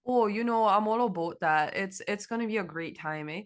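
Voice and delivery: half-hearted hammed Canadian "eh"; mock Canadian accent. Co-host keeps up the joke before giving up, mock Canadian accent. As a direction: try the Canadian cliché and lose it. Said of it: "I can't do it".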